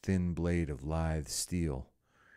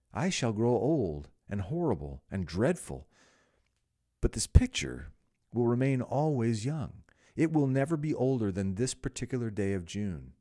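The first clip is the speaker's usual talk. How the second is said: rising anguish; 5 semitones higher, 4 dB louder than usual. A narrator's reading. Dorian despairing over his portrait.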